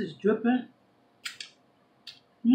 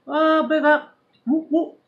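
hype shout-out; 7 semitones higher, 4 dB louder than usual. Real, not acted. Hyping her hometown.

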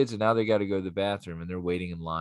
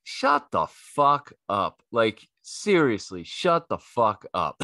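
deadpan retort; 4 dB louder, much slower than usual. Retold or imitated. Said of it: "And I'm like".

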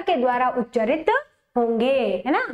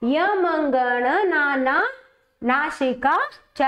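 slow, drawn-out chant of the sutra; sutra recitation; slower than usual. Shown as a demonstration. Teacher showing students how to say the sutra, slow chant. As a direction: intone each syllable of the rule slowly. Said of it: "कैसे बोलेंगे इसको?".

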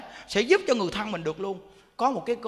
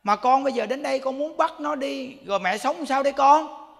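louder, higher pleading mother to her dead son; louder tearful-sounding plea to her son, lightly voiced; pleading old mother; 4 semitones higher, 5 dB louder than usual. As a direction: beg the son as a grieving mother. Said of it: "người mẹ cũng nói".

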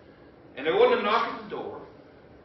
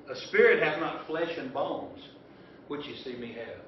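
a slower, deliberate rereading; 4 semitones lower than usual. Shown as a demonstration. Preacher rereading verse to congregation, slow and deliberate. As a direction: read it again slowly so they catch the gap. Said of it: "Did you hear that?".

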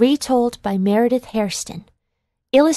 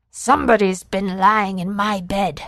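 father bear growling. Acted. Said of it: "growled the father bear".

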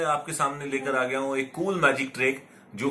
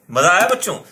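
excited; 3 semitones higher, 6 dB louder than usual. Pretend. Host asks children.

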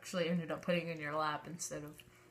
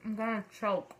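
talking through a dry mouth; 3 semitones higher, 5 dB louder than usual. Real, not acted. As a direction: mouth full of dry crackers. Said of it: "It's so dry".

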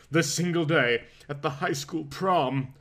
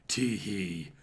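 soft spoken giggle; a light hinted tee-hee; girlish giggle; 6 semitones lower, 7 dB quieter than usual. Acted. Nurse giggles softly at Bruce's first word. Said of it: "She gave a girlish giggle".

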